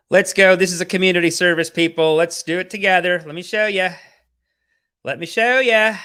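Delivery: hyped up. Real, not acted. Hyping the stream audience.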